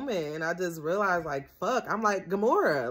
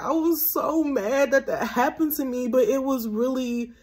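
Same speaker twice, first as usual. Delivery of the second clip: getting emotional; 9 semitones higher than usual. Real, not acted. Telling her audience how the pain helped her, emotional. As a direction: voice rising high as emotion wells up. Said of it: "I'm low-key getting emotional".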